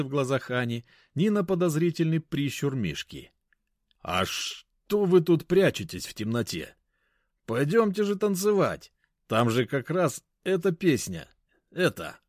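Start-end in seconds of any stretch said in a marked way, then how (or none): 4.0-12.2 fake drunk. Narrator pretending drunk, inviting couple to dance. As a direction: lure them to dance, tipsy. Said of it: "изображая пьяного".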